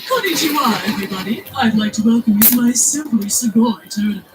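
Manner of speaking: loud, hammed-up welcome announcement; imagined dub villain. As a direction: boom it out like an over-the-top tournament host. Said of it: "should have been saying stuff like".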